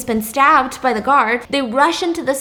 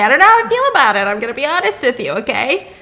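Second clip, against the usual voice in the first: excited; 2 semitones higher, 4 dB louder, much faster than usual. Real, not acted. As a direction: blurt it out. Excited aside.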